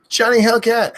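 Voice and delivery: high piercing yell; screamed name. Acted. Streamer screaming a viewer's name, shrieking loud. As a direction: scream it at the top of your lungs. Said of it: "I end up screaming too much".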